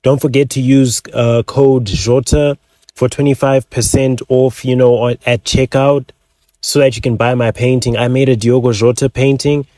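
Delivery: milk the fake grief, then slide into the sales pitch; mock grieving influencer. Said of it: "the same energy as me saying".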